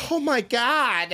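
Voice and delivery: high, slow shocked oh my God; mock startled woman, pitched high; startled gasp. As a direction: draw it out in shock. Sura startled in hallway.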